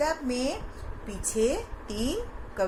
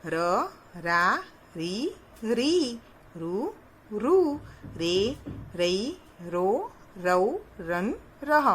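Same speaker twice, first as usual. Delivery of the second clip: syllable drill. Shown as a demonstration. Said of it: "teacher recites syllable chart".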